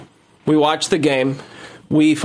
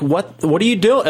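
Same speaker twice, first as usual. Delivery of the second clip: mildly raised, indignant questioning; retold yell; 5 semitones higher than usual. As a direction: act out starting to yell. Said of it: "starting to yell".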